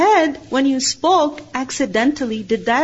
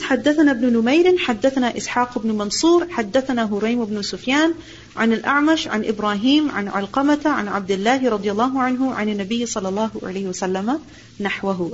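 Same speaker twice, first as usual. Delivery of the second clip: quick, running Arabic chain of narrators; brisk traditional hadith chain reading; rapid isnad recitation; much faster than usual. Acted. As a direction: rattle off the isnad fast like a practiced teacher.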